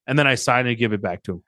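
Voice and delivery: ordinary talk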